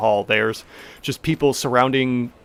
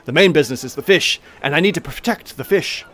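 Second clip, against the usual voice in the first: somewhat higher halfling voice, matter of fact; Tamili explaining; 3 semitones higher, 3 dB louder than usual. Acted. Halfling owner explaining the fish business, lightly voiced. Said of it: "gestures to everyone behind her".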